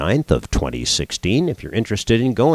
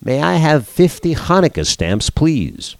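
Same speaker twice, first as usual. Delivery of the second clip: put-on high, sweet old lady asking; raised voice of an elderly Jewish woman; yiddish accent; 7 semitones higher than usual. Woman asks clerk in joke.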